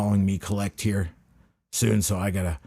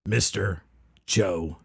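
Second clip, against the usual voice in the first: announcer voice; slower than usual. Acted. Grand host introduction.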